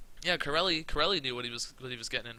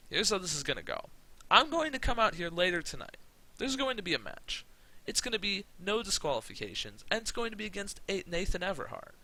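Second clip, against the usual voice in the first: lightly acted wrestler promo, pitched up; wrestler's promo; 5 semitones higher, 3 dB louder than usual. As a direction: cut a mock wrestling promo in your own accent. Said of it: "he cuts a promo".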